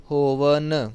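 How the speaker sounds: ਹੋਵਨ with a clean dental n; correct dental n. Shown as a demonstration. Teacher repeating the right word, dental n. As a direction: land ਹੋਵਨ on n, not ṇ. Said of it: "ਜੇ ਹੋਵਣ ਕਵਾਂਗੇ ਤਾਂ ਨਾਣਾ ਲੱਗ ਜਾਏਗਾ".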